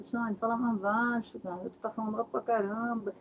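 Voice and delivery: hushed scolding. Retold or imitated. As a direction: tell someone off under your voice. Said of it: "Eu falo".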